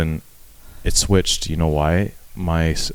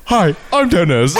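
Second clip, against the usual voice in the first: laughing mock greeting; 7 semitones higher than usual. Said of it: "he looks at me and goes".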